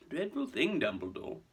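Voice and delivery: high start sinking languidly; lazy. Acted. Malfoy addressing Dumbledore, lazy. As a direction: toss it off with idle disdain. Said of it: "said Mister Malfoy lazily".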